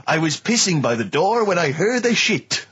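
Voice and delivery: lightly hammed French accent, drawn out; a joke line in a put-on French accent. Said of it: "I'm talking in a French accent".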